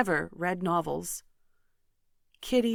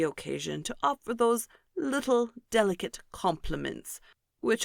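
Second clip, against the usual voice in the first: pompous Mr Collins. Acted. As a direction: puff up each word like a self-important parson. Mr Collins on his compliments.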